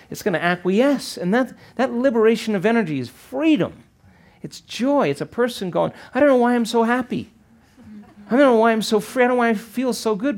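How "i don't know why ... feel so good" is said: much higher, bubbling with happiness; giddy joy. Retold or imitated. A person freed by meditation, giddy and high. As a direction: voice a person amazed at their own joy.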